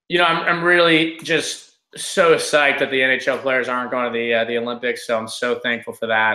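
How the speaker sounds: mock-thankful, understated sarcasm; sarcastic undertone. Real, not acted. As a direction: feign gratitude with a dry sarcastic edge. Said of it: "pick up on my sarcastic undertone".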